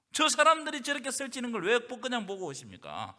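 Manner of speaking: usual speaking voice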